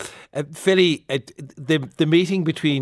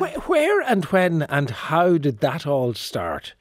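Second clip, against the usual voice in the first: lightly voiced therapist, slow and higher; mock therapist; 4 semitones higher, slower than usual. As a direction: probe slowly, as a pretend therapist. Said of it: "I said, therapist like".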